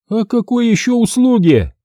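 наглый высокий женский голос; дерзко переспроси; нагло. Acted. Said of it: "На глазах обнаглела она". (обнаглевшая женщина дерзит мастеру)

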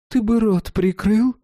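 high, slow, sharp granny voice; stern grandmother. A narrator's reading. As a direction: cut him off as a stern old woman. Grandmother snaps at Oleg.

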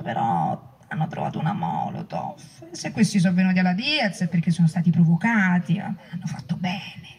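a mock-weary, dismissive aside; mocking quote. Mocking left leaders' excuses.

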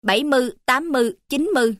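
"mươi" reduced to "mư"; Phú Yên way of saying "mươi", with ươi turned into ư; Phú Yên pronunciation. Shown as a demonstration. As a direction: say "mươi" as "mư" in bảy mươi, tám mươi, chín mươi. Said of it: "cũng nói ươi thành ư".

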